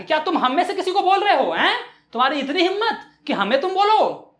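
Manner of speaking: high-pitched acted outrage; mock-angry demand; indignant challenge. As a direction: confront him as an affronted vendor. Second vendor confronts Ravi indignantly.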